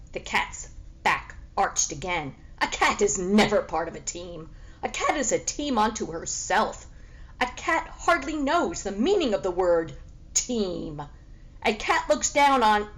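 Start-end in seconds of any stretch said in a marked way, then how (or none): 2.6-12.9 haughty cat. Acted.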